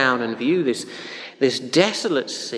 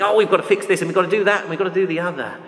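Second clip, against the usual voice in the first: higher, louder imitation of fussing; hammed-up urgent list of jobs; mock panic; 6 semitones higher, 4 dB louder, much faster than usual. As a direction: imitate someone frantic to fix everything. Voicing people's fussing need to fix.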